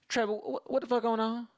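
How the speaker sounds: high, loud impression of an irate mom; cussing mom. Mom breaks off her call to cuss out her son, high and loud. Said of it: "this mom was not afraid to cuss".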